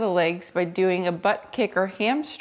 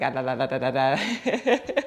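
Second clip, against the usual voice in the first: into a fan; 6 semitones lower than usual. Retold or imitated. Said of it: "talk into the fan and be like".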